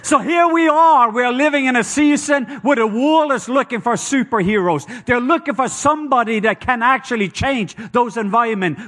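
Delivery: loud, high, driving sermon voice; preaching at full force. Real, not acted. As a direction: preach it out to the crowd.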